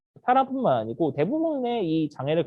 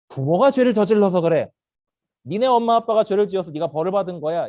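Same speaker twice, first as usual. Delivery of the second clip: firm, louder scolding tone; accusing; 5 dB louder than usual. Acted. People blaming a disabled man for sin, accusing. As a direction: pronounce blame on them. Acts out ancient judgment of disabled.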